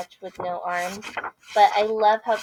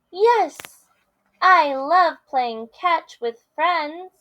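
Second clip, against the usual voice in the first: eager Piggy; 7 semitones higher, 7 dB louder, slower than usual. Acted.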